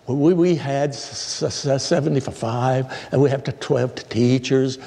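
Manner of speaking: slow halting stammer, lightly voiced; stuttering report. Superintendent giving a meeting report, stuttering. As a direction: catch on each first sound. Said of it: "she stuttered".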